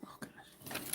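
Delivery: breathy strained gasp; strained while bending over; straining on a ladder. Real, not acted. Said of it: "Sorry, I'm up on a, on a ladder".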